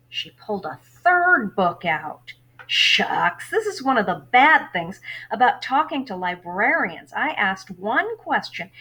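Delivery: lively read-aloud of a novel for class; story narration. A narrator's reading. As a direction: read the chapter to your students, lively. Teacher reads novel aloud.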